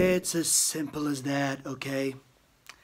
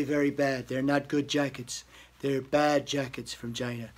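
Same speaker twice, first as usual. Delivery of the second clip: Trump impression bragging about jacket. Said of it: "Donald Trump impersonation".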